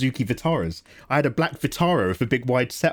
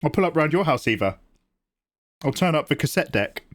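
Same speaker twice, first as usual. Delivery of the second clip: lightly played British street accent; British ghetto accent; 3 semitones higher than usual. Streamer offering to pull up at Eva's, British ghetto accent. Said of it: "your accent becomes British ghetto".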